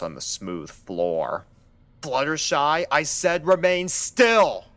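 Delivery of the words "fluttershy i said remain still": high, loud and commanding; shouted order. A narrator's reading. Doctor shouts at Fluttershy to stay put, firm and loud. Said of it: "the doctor shouted".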